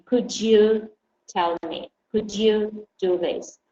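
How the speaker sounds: slow model phrases with COULD YOU blended into could-jou; measured pace, d and y of "Could you" merging into j; linked could-you. Shown as a demonstration. Teacher giving learners phrases to repeat, slow with linked could-you. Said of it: "I'm sure you're saying".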